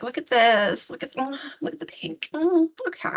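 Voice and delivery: put-on high airy valley girl gush. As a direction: gush over pink like an influencer. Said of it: "I'm allowed to talk like a valley girl".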